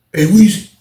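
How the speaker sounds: loud high call across the pod. Retold or imitated. Cellmate calling Weezy across the pod, loud and high. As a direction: shout his name to get attention.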